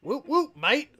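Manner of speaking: laughing Aussie whoop whoop, mate with a rising end; mock Australian. Host retries the Australian cheer, mock Aussie accent. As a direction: try again as a playful Australian. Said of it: "Or no, that sounded more".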